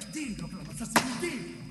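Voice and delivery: building demand. Acted. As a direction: squeeze it out of him, rising to a roar. Interrogator forcing the confession. (da un sussurro pressante a un urlo)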